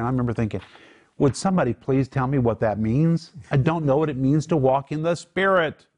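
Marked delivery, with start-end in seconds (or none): 1.2-5.9 higher-pitched, pleading complaint; mildly acted frustrated plea; retold exasperation. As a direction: recall being baffled and fed up. Retells youthful frustrated thought at camp.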